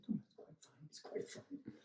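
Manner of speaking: soft, fading to a breathy whisper; forced polite reassurance. Retold or imitated. You politely reassure the old lady while fuming inside, barely voiced. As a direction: hide the irritation behind a quiet courtesy.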